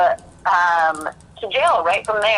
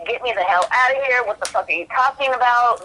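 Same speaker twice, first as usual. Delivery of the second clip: higher, mildly frantic retold protest; quick, higher-pitched demand to get out, lightly re-enacted; retold panicked outburst; 4 semitones higher than usual. Retelling her reaction to news of the death, mildly panicked. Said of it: "instantly just lost it".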